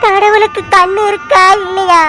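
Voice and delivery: crying question to heaven; tearful plea. Acted. Grieving widow asking if God has eyes, crying. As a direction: sob through the accusation.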